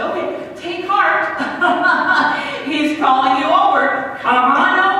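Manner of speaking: suddenly eager, calling over. Retold or imitated. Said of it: "have to go over and say".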